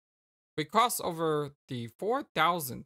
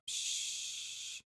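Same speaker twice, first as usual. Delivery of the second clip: whispered shush; 10 dB quieter than usual. Pretend. Soothing a rampaging clown.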